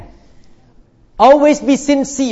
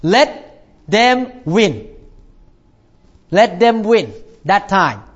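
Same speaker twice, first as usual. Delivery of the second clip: slow gentle; slower than usual. Real, not acted. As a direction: let it sink in. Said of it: "sermon advice".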